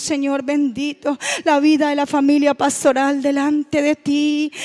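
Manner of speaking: leading the church in fervent spoken prayer, pleading and praising. Acted. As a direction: pray aloud over the congregation with fervour. Leads fervent congregational prayer. (oración ferviente dirigiendo a la iglesia)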